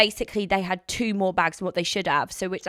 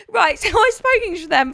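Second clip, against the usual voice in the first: residual giggle; 8 semitones higher, 6 dB louder than usual. Real, not acted. Calming after laughing fit.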